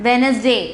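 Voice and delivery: Wednesday with the first D dropped; careful Wednesday, first D left unsounded; silent D. Shown as a demonstration. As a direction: say Wednesday as "WENZ-day". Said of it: "D is a silence pronunciation".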